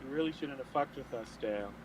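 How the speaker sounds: low, understated menace in another man's voice; lightly voiced imitation, dropping low at the name; Dale. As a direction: pronounce a quiet threat in his voice. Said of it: "say in Dale's voice out loud".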